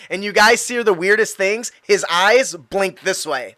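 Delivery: ordinary delivery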